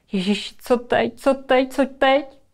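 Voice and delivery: lightly acted panicking child; rising, helpless fretting; mild panic. Child panics over hurt sister. (lehce zahraná panika)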